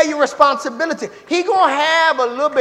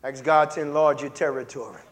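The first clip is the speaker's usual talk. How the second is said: quiet plea; 11 semitones lower, 6 dB quieter than usual. Real, not acted. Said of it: "ask the Lord to enlarge".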